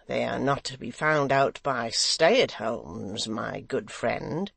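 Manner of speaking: sly triumph. Acted. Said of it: "smile of triumph".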